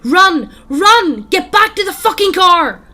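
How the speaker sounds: full-out, high-pitched yell; panicked shouting. A narrator's reading. Dan to friends fleeing the house, shouting in panic. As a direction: scream at them to flee for their lives. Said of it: "Dan starts shouting".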